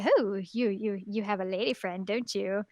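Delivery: put-on teasing parent in a vague Swiss accent; lightly attempted Swiss accent. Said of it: "Swiss accent there".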